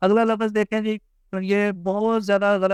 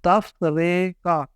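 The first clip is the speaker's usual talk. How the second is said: very slow, syllable by syllable تفریقہ; slow practice pace; much slower than usual. Shown as a demonstration. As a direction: stretch تفریقہ out as taf-re-qa. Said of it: "آہستہ آہستہ ٹھیک کرنے". (تفریقہ آہستہ آہستہ، توڑ کر)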